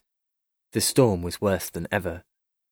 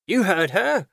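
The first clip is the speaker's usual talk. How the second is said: high-pitched forceful call; commanding cry; 9 semitones higher, 3 dB louder than usual. A narrator's reading. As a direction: cry it out to rouse the crew. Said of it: "cried the Chief".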